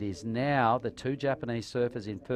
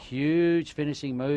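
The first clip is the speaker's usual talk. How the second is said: excited call; 5 semitones higher, 6 dB louder, slower than usual. Real, not acted. Commentator hyping a big turn.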